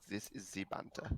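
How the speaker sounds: lightly mocking German accent; appalling German accent. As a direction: put on a bad German accent. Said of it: "our German accents are appalling".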